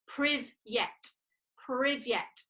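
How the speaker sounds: "privyet" said as two clear syllables, priv-yet; Russian word demonstrated. Shown as a demonstration. Teacher showing children Russian hello, "privyet" pronounced carefully. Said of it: "teach you how to say".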